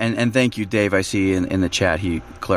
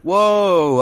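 a sudden, much higher and louder gasp of surprise; startled exclamation; surprised whoa; 10 semitones higher, 5 dB louder than usual. Retold or imitated. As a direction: blurt it out as if caught off guard by a twist. Reader surprised by book twist.

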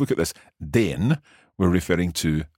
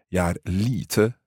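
slow repeat; slower than usual. Shown as a demonstration. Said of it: "So that lite is the same lite".

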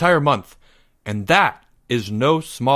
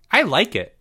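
put-on high, chirpy kid; cheerful; 7 semitones higher than usual. A narrator's reading. Jeffrey happy as junior scout, high cheerful chirp. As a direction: pipe up happily in a high voice. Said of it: "said Jeffrey cheerfully".

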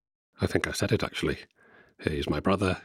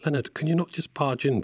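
annoyed; 9 semitones higher than usual. Real, not acted. Annoyed at interrupting brother.

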